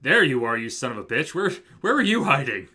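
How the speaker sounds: loud, rising mock-accusing greeting; excited outburst. Real, not acted. Player greets a long-awaited game character, loud and excited. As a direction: burst out loudly at finding someone. Delighted outburst at Herlock appearing.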